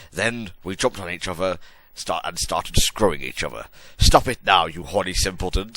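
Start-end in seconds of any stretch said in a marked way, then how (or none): 4.0-4.7 loud scolding teacher shout; stern schoolmistress yelling; hammy stage actor. Acted. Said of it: "shouted Professor McGonagall".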